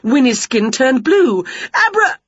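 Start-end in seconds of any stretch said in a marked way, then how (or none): 1.9-2.2 cut-off spell. A narrator's reading.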